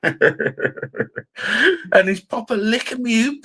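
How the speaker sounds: slow, high, through laughter; laughing while telling it. Real, not acted. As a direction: chuckle the words out. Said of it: "I'm sitting there chuckling".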